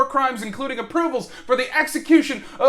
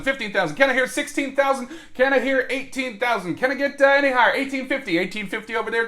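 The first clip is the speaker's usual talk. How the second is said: brisk auction patter calling bids; auctioneer voice. Pretend. Mock auction of Wikipedia article.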